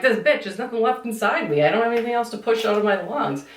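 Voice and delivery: high-pitched, hurried mock complaint; exasperated protest. Retold protest during breathing test.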